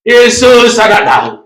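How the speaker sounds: high, drawn-out call; crying out. Acted. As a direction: call out with conviction. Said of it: "Tapi dia berseru lain daripada yang lain".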